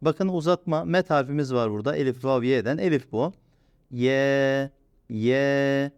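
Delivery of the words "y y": Y drawn out; slow stretched Y; lengthened. Shown as a demonstration. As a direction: hold the Y. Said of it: "bir miktar uzatıyorum".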